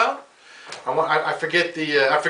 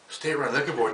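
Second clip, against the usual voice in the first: deadpan aside; 6 dB quieter than usual. Acted. Comic repeating the list item to himself, softer and deadpan. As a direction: drop it, softer, as a dry repeat.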